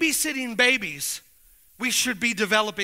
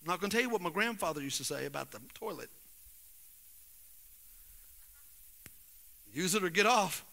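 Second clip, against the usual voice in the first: much lower and softer, intimate; soft confiding talk; 9 semitones lower, 13 dB quieter than usual. Real, not acted. Pastor confiding with ashamed men, soft and low. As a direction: lean in and speak quietly.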